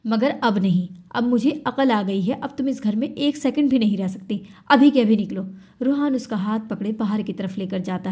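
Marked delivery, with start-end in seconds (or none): 0.0-5.5 building to a loud shout; louder furious order to leave; angry dismissal. Acted. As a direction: throw her out, rising to a yell. Husband throws wife out.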